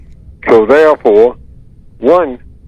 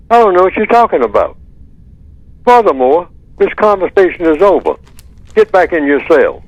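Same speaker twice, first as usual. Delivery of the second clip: higher, fast, curt shutdown of the talk; dismissive warden; 6 semitones higher than usual. Retold or imitated. Warden dismissing a prisoner's argument, curt and high. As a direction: close the matter with cold authority, quick and high. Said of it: "the white supremacists will say".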